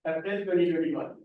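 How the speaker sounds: projecting to be heard. Real, not acted. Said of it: "Please be loud".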